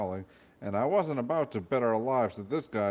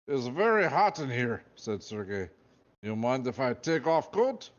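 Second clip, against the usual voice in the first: put-on Russian accent; 4 semitones higher, 3 dB louder than usual. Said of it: "He had a thick Russian accent".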